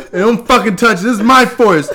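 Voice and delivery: very high, loud squeaky gremlin rant; tiny territorial creature, laughing as he goes; shrill angry critter; tree dude voice. Retold or imitated. Imitating the possessive tree dude.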